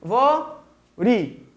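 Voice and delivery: "Árvore" as ár, vo, re with pauses; "Árvore" sounded out syllable by syllable; divided into syllables. Shown as a demonstration. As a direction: divide "Árvore" into three slow beats. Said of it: "Então, divide aqui".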